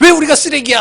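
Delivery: put-on very high, loud, irritated childlike cry.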